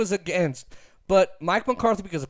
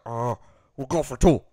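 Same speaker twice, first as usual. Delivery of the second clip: clueless coach; 9 semitones lower than usual. Retold or imitated. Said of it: "And he's like".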